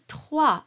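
trois with a closed A after the w; slightly darker A. Shown as a demonstration. Teacher explaining the exception to singers, trois with darker A. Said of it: "is pronounced slightly darker".

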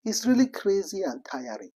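high-pitched, fed-up disbelief; exasperated complaint. Real, not acted.

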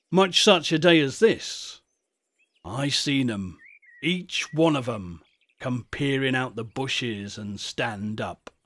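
lightly voiced countryman giving testimony; old rustic shepherd, solemn. Shepherd recounts the sighting.

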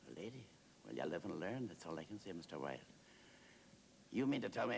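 lightly voiced eager, rambling questioner; a touch of fawning earnestness; deferential chatty admirer. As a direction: work up politely to a big question, with hesitations. Admirer reacts, asks about Corelli.

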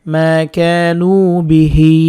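মা কানু বিহি drawn out, বিহি held at the end; slow recitation. Shown as a demonstration. Teacher recites the phrase slowly for learners. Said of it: "এই জন্য আমরা এক আলিফ টানলাম।".

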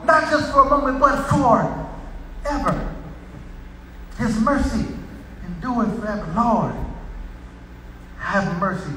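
ordinary delivery

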